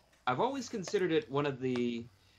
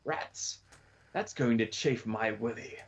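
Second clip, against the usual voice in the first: imitating the sheriff; 3 semitones lower than usual. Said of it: "the speaker as the sheriff".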